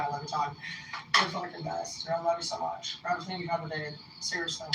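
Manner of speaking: soft, tender aside; heartfelt thanks. Real, not acted. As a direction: say it quietly and sincerely to someone dear. Heartfelt shout-out to John.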